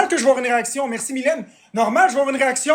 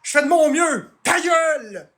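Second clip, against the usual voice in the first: higher, cutting shut-up; real fury at a chatter; angry shout; 5 semitones higher, slower than usual. Real, not acted. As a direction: bark it at the troll. Yelling at a chatter.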